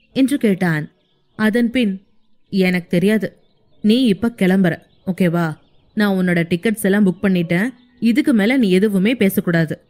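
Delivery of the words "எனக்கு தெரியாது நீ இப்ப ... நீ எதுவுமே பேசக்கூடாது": lightly voiced firm young man. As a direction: lower male voice, firm and decided. Hero voiced by narrator. (உறுதியான தாழ்ந்த ஆண் குரல்)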